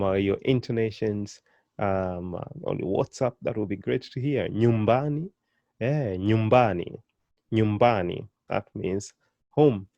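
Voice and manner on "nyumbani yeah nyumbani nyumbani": Nyumbani with a lengthened BA; penultimate stress. Shown as a demonstration. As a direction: lean on ba in Nyumbani. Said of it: "Stress is always put on the second to the last".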